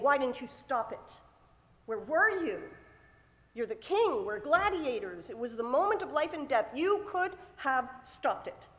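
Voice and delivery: emphatic, mildly heated reproach; accusing. Acted. Slain victim confronts God, accusing. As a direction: press each charge home with some force. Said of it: "The victim is accusing God".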